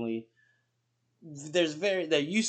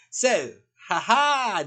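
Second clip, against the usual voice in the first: laughing; 10 semitones higher, 10 dB louder, much slower than usual. Real, not acted. Laughing into the questions.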